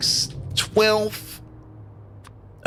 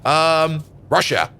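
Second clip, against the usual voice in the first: ordinary talk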